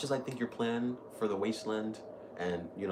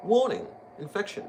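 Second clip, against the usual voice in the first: robotic warning; 11 semitones higher, 7 dB louder than usual. Pretend. Imitating game warning.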